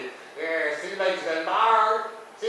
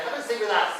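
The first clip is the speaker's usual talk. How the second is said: ordinary talk, nothing marked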